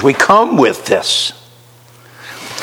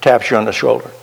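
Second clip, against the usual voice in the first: ordinary talk, nothing marked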